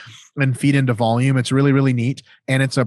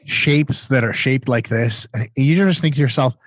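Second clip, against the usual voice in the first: muffled throat mic sound. Real, not acted. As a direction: speak through a throat mic. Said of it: "deep throat microphone going".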